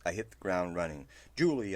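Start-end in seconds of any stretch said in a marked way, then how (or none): 1.4-1.8 calling a name loudly; shouting. A narrator's reading. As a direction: shout the name across the brush. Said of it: "I shouted".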